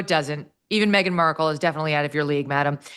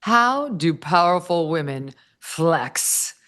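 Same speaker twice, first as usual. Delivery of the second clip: hammy dramatic reading; much slower than usual. Retold or imitated. Mock-dramatic reading of article.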